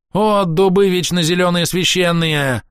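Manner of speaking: frantic elf shouting an invocation; yelling invocation. A narrator's reading. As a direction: bellow it like a desperate prayer. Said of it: "орал размахивающий руками Кастиэль".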